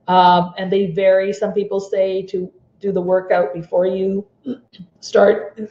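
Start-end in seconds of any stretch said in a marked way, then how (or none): 1.8-5.6 hoarse, voice giving out; rough voice strained and fading; losing voice. Real, not acted. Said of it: "Sorry, I'm losing my voice here".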